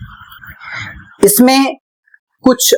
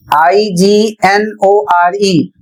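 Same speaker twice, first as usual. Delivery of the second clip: slow, each letter apart; spelling out letters; much slower than usual. Shown as a demonstration. Teacher spelling ignore for learners, slow and deliberate. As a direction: spell I G N O R E slowly. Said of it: "इग्नोर लिखा है".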